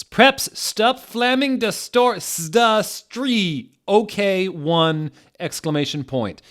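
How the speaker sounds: squeaky shrieking author rant in all caps; angry teen ranting. Acted. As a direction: play an outraged teen yelling at the haters. Reading the author's angry note.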